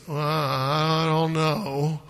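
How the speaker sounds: slow, drawn-out doubtful sigh of a line; mopey Eeyore. Retold or imitated. Abram doubting God's promise, slow and mopey. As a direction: stretch it out like a gloomy donkey. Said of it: "It's kinda like Eeyore".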